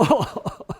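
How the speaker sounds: breathy unvoiced laugh; real amused laughter. Real, not acted. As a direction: burst out laughing at the punchline. Laughing at the story's end.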